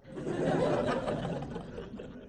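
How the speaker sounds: breathy high giggle; high laugh. Real, not acted. Nun laughing at her quick prayer, giggle. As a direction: laugh at your own hurry.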